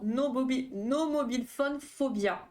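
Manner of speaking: "no mobile phone phobia" in slow, heavily French-accented English. Shown as a demonstration. Streamer reading the English term to chat, in self-mocking French-accented English. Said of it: "avec mon super accent, euh, fantastique".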